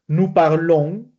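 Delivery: "parlons" drawn out slowly with a nasal "on"; nasalized ending. Shown as a demonstration. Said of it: "se nasaliza".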